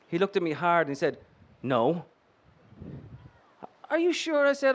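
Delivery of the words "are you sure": much higher, coy and flirty; all cutesy. Acted. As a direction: bat your eyelashes with the voice. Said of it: "all cutesy".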